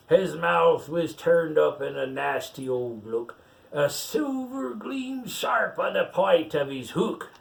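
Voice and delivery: pirate reading a picture book aloud; story reading. Acted. Pirate reads the rhyme to the child, storytelling lilt. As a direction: read the verse out like a bedtime tale.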